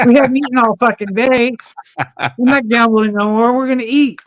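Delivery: mock-indignant refusal; retold exasperated protest. Retold refusal to keep gambling.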